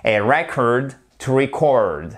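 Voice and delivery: RECord as noun with stressed first syllable and "e", then reCORD as verb stressed on the second; A RECord, to reCORD, spaced out; stress shift demo. Shown as a demonstration. Teacher contrasting noun and verb, stress moved from first to second syllable of "record". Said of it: "l'accent tonique, il change, il est sur la première syllabe ici".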